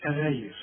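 أغير with a thin gh; wrong light ghayn. Shown as a demonstration. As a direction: say أغير without heaviness. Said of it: "يجي يقول لك إيه؟". (أغير بغين مرققة)

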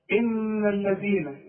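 إن الذين with the ذ of الذين kept thin and light, tongue out; thin dhal. Shown as a demonstration. Quran teacher showing a student: الذين said thin and light. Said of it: "الذين كلها مرققة".

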